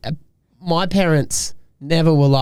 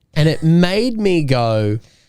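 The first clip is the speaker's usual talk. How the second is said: ordinary talk, nothing marked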